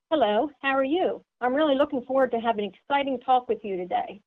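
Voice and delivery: quick, friendly and eager; bubbly fast greeting; upbeat, eager. Shown as a demonstration. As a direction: sound excited to chat, fast. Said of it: "they want to have fun".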